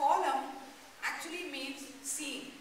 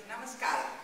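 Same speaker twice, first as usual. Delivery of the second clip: warm greeting; 3 semitones lower, 3 dB louder than usual. Shown as a demonstration. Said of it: "Say it nicely".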